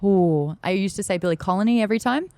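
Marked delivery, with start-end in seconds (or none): 1.2-1.8 "Colony" in place of Connolly, "KOL-uh-nee"; mispronounced Billy Connolly. Retold or imitated. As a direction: swap the l and n, making Connolly "Colony". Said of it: "I couldn't say Billy Connolly".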